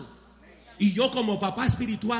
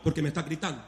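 parent scolding; 2 semitones higher than usual. Retold or imitated. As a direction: put a shouting child in their place. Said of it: "se lo dice gritando, le dice".

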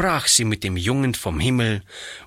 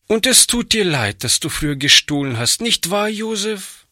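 lightly voiced girl, higher, eager and quick; hopeful, pressing him for a yes; eager question; 9 semitones higher, faster than usual. A narrator's reading. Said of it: "fragte Hannchen eifrig".

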